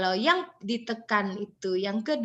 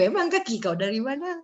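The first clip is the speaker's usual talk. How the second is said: laughing. Real, not acted. Joking about Sekadau speech.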